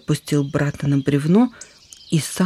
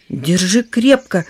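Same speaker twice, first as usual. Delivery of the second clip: commanding; 3 semitones higher, 4 dB louder, slower than usual. Acted. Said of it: "скомандовал Рыжее Солнышко".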